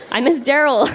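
a giggle breaking through the line; barely holding back laughter; laughing while reading. Real, not acted. Reading teen diary aloud, laughing.

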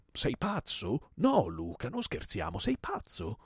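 high, loud panicked protest; terrified shouting. Acted. Host pleading before an aimed revolver, terrified cries. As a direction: cry out as if dodging a bullet.

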